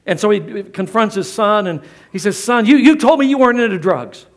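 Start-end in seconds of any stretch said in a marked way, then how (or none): 2.4-4.3 loud scolding dad, pace pushing forward; scolding father voice; angry father. Retold or imitated. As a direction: come down hard on the lying son.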